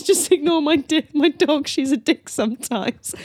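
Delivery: mild pretend toddler yell; imitated child shouting. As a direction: call it out high, like a little kid, half-heartedly. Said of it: "imagine a three-year-old shouting at old ladies".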